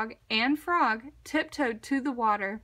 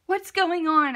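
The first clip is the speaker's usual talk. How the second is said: surprised; 5 semitones higher, 6 dB louder than usual. A narrator's reading. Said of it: "asked Badger".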